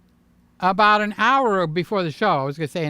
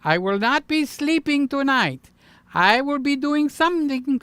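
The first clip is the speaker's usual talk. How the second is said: too much caffeine; 7 semitones higher than usual. Real, not acted. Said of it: "Can you tell the caffeine is kicking in".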